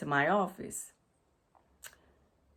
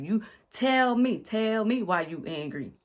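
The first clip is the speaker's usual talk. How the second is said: louder, higher, slow demanding "You tell me"; mock demanding boss; 4 semitones higher, 5 dB louder than usual. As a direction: imitate the boss getting in your face.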